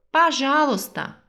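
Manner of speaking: usual speaking voice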